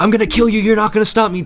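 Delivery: high, loud mock threat; menacing threat. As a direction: snarl it like a villain. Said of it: "she went from one moment of".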